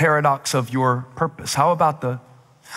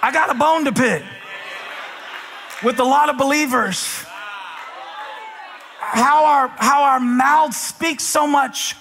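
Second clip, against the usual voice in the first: raised-pitch preacher's challenge; preaching challenge; 7 semitones higher than usual. Real, not acted. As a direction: press the congregation in measured, emphatic phrases.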